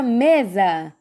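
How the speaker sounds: "mesa" with the weight on ME; stress on first syllable. Shown as a demonstration. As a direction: hit the first syllable of "mesa", let the second drop. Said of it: "a sílaba que chamou mais atenção foi me". ("mesa" com destaque no ME)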